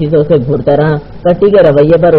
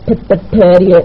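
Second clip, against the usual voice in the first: higher-pitched flustered stammer; woman's voice; 4 semitones higher than usual. Acted. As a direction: stumble on the first word in a hurry to stall. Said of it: "نسوانی آواز کے ساتھ ہی". (گھبرائی ہوئی نسوانی آواز)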